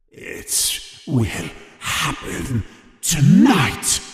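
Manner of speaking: slow, otherworldly menacing whisper-start; sudden eerie trance voice, ominous; strange aggressive voice. A narrator's reading. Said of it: "in a strange, aggressive voice".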